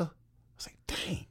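whispered under the breath; hushed amazement. Retold or imitated. Inner reaction, hushed.

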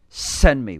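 bold offer. Acted. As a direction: declare it boldly. Isaiah answers God, second take.

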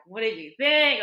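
loud, high, keyed-up ask; nervous eager blurt; eager excited question. Retold or imitated. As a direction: push to pull an answer out of him. Asking dad about the book.

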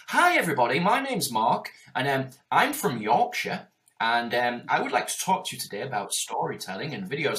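hammed-up phony intro voice; silly put-on voice. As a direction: fake it to fit in like a stiff presenter. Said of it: "Stop with that silly voice".

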